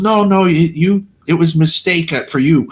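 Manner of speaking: hint of the lady's broken English; lightly voiced Asian lady. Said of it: "She goes".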